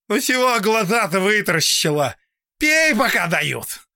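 high, loud, gruff command; bully her into drinking; gruff order. A narrator's reading. Old man bullying servant.

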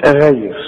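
"غير" with a thin gh; wrong light ghain. Retold or imitated. Teacher mimics a reader's mistake, thin gh in "غير". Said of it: "يجي يقول لك ايه؟".

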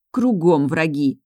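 slow, drawn-out complaint; disappointed drawl. A narrator's reading. Влада feels ganged up on by friends, drawling disappointedly. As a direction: stretch it out, let down. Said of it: "разочарованно протянула Влада".

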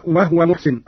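وهو said "wahwa", no vowel on the ha; two-syllable "wah-wa" for وهو; vowelless ha. Shown as a demonstration. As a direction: drop the vowel after the ha in وهو. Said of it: "وكذلك قوله تعالى".

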